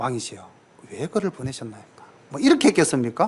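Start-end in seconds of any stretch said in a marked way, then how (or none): 0.0-2.0 very quiet, hushed, gentle, mild, courteous tone. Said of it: "아주 점잖게".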